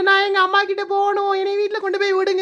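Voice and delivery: whiny crying. Acted. Hurt wife cries to be taken home to her mother. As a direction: sob like a sulking child.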